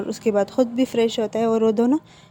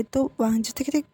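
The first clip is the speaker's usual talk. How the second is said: usual speaking voice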